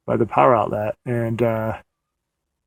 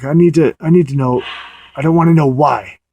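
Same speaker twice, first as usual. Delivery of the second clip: higher, louder, insistent demand; mock forceful demand; aggressive insistence; 4 semitones higher, 5 dB louder than usual. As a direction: push back firmly, retold. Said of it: "kind of aggressive".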